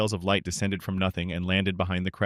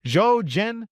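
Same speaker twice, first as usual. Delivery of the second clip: high, louder cry of his name; surprised exclamation; 13 semitones higher, 6 dB louder than usual. A narrator's reading. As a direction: call out, startled to see his friend. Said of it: "said his name in surprise".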